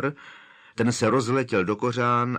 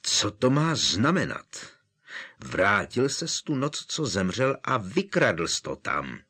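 growled. Acted. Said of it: "zavrčel Harry".

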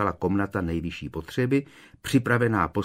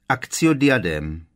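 slow, louder spell-casting; drawn-out, raised incantation; desperate attempt; 3 semitones higher, 5 dB louder than usual. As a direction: cast the spell loudly and slowly. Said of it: "učinila zoufalý pokus Hermiona".

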